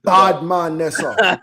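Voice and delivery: lightly voiced Jamaican patois; a touch of Jamaican; Jamaican accent. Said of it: "thick Jamaican accent".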